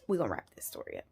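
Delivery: low murmured aside. Real, not acted. Storyteller to viewers about wrapping up, low murmur. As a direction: drop it down low and quiet.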